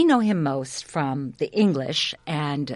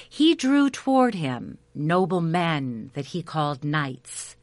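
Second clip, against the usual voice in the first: epic fantasy narrator. A narrator's reading. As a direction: spin it like an old legend by the fire. Storyteller begins Arthurian legend.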